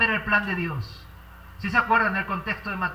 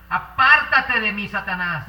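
Jesus firmly rebuking, a bit louder and raised; stern rebuke; 6 dB louder, slower than usual. Acted. Jesus rebuking Peter with firm authority. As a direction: push him away with a firm "Apártate de mí".

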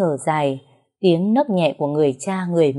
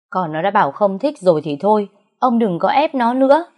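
mother's protest; 3 semitones higher than usual. Acted. Mother tells her husband to stop forcing the daughter, rising higher. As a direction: scold him to stop pushing her.

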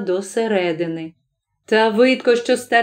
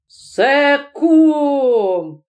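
high, astonished mild shout; crying out; 5 semitones higher than usual. A narrator's reading. Godfather recognising his friend in the sack, crying out. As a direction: call it out in raised pitch. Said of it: "крикнув кум".

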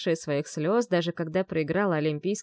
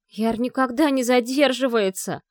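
higher, louder insistent protest; rising panic; 5 semitones higher, 6 dB louder than usual. A narrator's reading. Vi contradicting Muromets, panicky. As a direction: push back with mounting panic. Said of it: "С нарастающей паникой".

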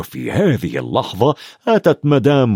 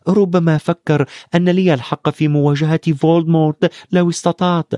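wisely; 4 semitones higher than usual. Acted. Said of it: "قال هاري بحكمة".

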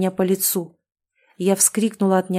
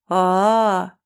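knowing drawn-out ah. Acted. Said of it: "понимающе протянул страж".

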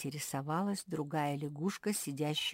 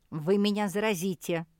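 nervous; 4 semitones higher, 9 dB louder than usual. Acted. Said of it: "занервничала лягушка".

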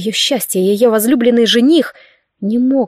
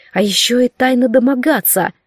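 ordinary delivery

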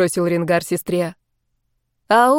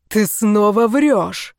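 slow, heavy furious accusation; angry accusation; much slower than usual. A narrator's reading. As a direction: hurl the charge of lying at her. Enraged dragon accuses her.

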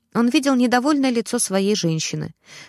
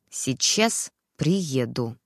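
slowly through teeth; 7 semitones lower, much slower than usual. A narrator's reading. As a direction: hold back the fury, barely moving the jaw. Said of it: "медленно процедил". (медленно цедит сквозь зубы)

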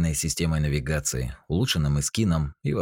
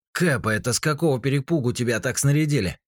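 surprised, pitched up high; 9 semitones higher than usual. A narrator's reading. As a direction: ask in amazement. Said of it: "удивился Сима".

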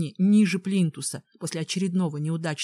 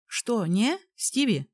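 hoarse; 3 semitones higher, slower than usual. Acted. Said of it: "хрипло спросила".

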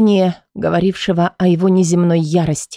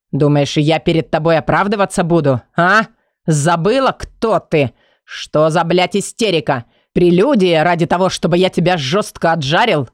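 mocking Kai voice.

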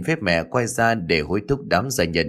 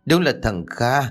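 tearful joy; 3 semitones higher than usual. Acted. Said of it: "rưng rưng nước mắt".

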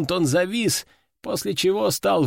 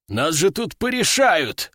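roared. Acted. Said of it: "взревел ветеран".

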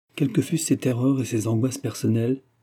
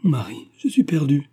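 higher, half-whispered alarm; hushed but raised panic; frightened murmur; 5 semitones higher, 4 dB louder than usual. A narrator's reading. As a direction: murmur it in sudden dread. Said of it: "murmura Laurence".

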